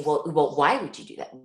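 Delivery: loud, incredulous reproach, pitch pushed up; judgmental parent scolding. Retold or imitated. Parent scolding teen who confessed, loud disbelief.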